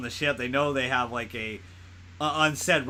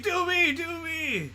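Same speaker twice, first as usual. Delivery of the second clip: mock Drax; slower than usual. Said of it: "And he's like".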